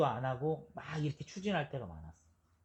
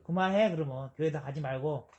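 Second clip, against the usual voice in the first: mock scolding God; 5 dB louder than usual. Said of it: "이렇게 얘기 안 하시고".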